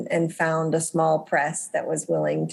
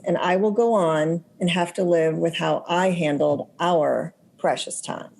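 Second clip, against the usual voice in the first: reading aloud. Shown as a demonstration. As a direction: read the passage from your book. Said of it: "go ahead and read the page".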